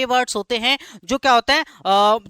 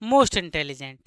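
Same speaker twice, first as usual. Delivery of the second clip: "most intelligent" stretched out word by word, very slowly, lower; dictating slowly; 8 semitones lower, much slower than usual. Shown as a demonstration. Teacher dictating the superlative to the class, very slowly. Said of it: "क्या बनेगा?".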